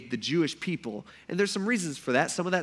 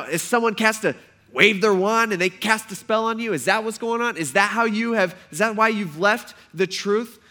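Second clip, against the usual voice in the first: sarcastic; 4 semitones higher, 4 dB louder than usual. Acted. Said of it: "He's being sarcastic here".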